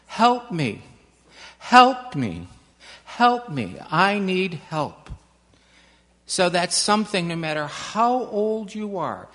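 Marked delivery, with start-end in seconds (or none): 0.1-5.1 mild, measured call for help, in separate bursts. Shown as a demonstration. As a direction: call out firmly for help, not screaming. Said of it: "call out into the world".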